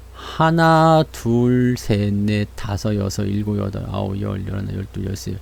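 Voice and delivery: low, soft running count; tally it up under your voice; counting off quietly. Shown as a demonstration. Streamer counts the falling days for viewers, low and quiet.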